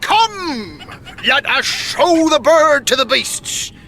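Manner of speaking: laughing through the invitation. Acted. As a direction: chuckle while you beckon them on. Old man cheerfully leading them.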